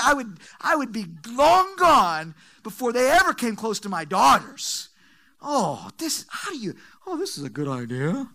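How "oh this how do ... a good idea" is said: mocking put-on voice. Mocks Lot's thinking in odd voice.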